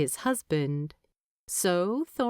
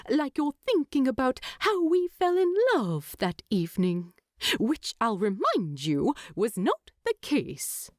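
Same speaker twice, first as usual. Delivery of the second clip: higher, indignant hobbit teasing his husband; mock outrage, pitched up; voiced Bilbo; 5 semitones higher than usual.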